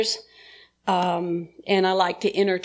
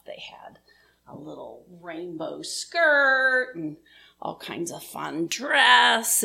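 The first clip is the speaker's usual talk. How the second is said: whispering. Real, not acted. Aside about previous speakers' outfits.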